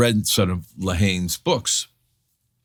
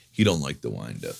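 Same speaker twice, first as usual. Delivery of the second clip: paternal; 8 semitones lower, 4 dB quieter than usual. Retold or imitated. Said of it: "in typical paternal form".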